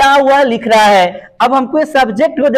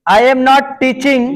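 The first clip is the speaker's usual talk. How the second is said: each word slow and spaced; teacher spelling out a sentence; slow dictation; 2 semitones higher, much slower than usual. Shown as a demonstration. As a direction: dictate it slowly for the class. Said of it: "slow dictation of English".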